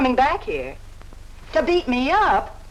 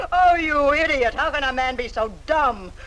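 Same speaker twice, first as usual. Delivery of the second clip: contemptuous jeer; scornful. Acted. Woman ridiculing the man who proposed, scornful. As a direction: throw the insult in his face.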